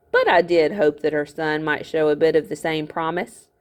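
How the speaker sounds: a hint of a smug old miller, gloating; lightly voiced miller. Miller gloating at the boy, smug voice. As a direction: play the scheming miller, lightly.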